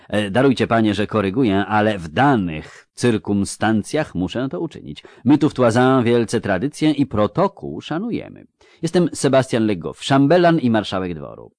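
lightly voiced ceremonious court official; a hint of a stuffy chamberlain; courteous pompous chamberlain. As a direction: correct him with elaborate courtly politeness.

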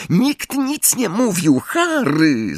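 high-pitched anxious call; mild, high exclamation. A narrator's reading. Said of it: "zawołała Hermiona".

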